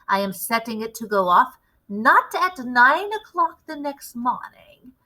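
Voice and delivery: a lightly voiced commanding witch leader; a hint of a grand witch showing off her recipe. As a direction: lecture the coven like their boss. Grand High Witch addresses the witches.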